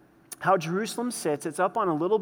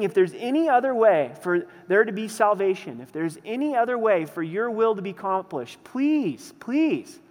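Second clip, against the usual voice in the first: louder plea that climbs much higher on the final please; a preacher voicing Jesus begging the Father; desperate pleading; 3 semitones higher, 3 dB louder than usual. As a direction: beg with every ounce of desperation. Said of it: "Every ounce of desperation".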